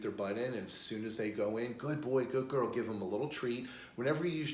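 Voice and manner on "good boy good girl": lightly lifted, upbeat praise; mild excited praise. Shown as a demonstration. Trainer rewarding a dog for going in, mildly excited. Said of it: "act excited".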